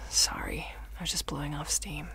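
soft, low apology after a sigh; subdued, deflated excuse; chastened. Acted. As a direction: back down quietly.

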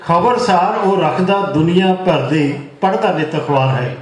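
lilting mushaira verse, phrase by phrase; poem recitation. Acted. Poet praising his friend to the gathering, lilting recitation. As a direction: repeat the opening line, settle onto the refrain.

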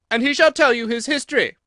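a queen screaming a threat; furious shout. A narrator's reading. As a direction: roar the warning at the Duchess. Queen commands Alice.

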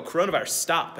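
mock command at the virus; commanding shout. A frustrated teen commanding the coronavirus to stop, loud.

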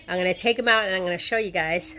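speaking with fingers in mouth; pulling out dentures while talking; fingers on teeth. Real, not acted. Seen 3: Fingers at front teeth removing denture while speaking, till 2.9s.

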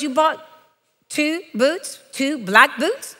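mock incredulous, pausing before each repeat; husband's disbelief. Husband questioning her two pairs of boots, mildly incredulous. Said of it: "he goes".

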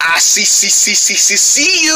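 repeating robotic stutter, rising; robot pig. Acted. Pig spotting the rabbit, robotic. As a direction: stick on one word like a machine. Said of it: "acting like a robot".

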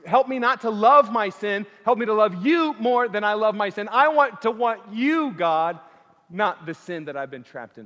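loud, high, impassioned plea; crying out in prayer. Acted. Preacher models a Christian's prayer against sin, crying out. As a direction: beg God with full-voiced fervour. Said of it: "cry out for forgiveness and mercy and say".

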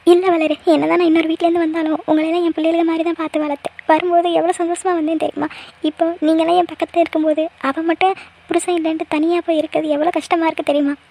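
understated weepy lament; tearful. Acted. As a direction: plead through mild, acted tears. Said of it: "அண்ணி, அழாதீங்க அண்ணி".

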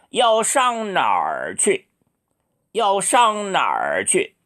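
very slow, careful tones; slow model question. Shown as a demonstration. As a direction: drill the question slowly. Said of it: "요 하지 말고".

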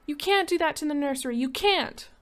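shrill, fast, frantic protest; high panicked yell at the parents; children screaming. Acted. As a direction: scream it like a child losing a toy. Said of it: "They yelled and sobbed and swore".

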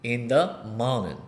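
"in the morning" met weggeslikte t, als "in da mane"; American flap T. Shown as a demonstration. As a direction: laat de T in "in the morning" bijna wegvallen. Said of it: "이런 식으로 발음이 들립니다".

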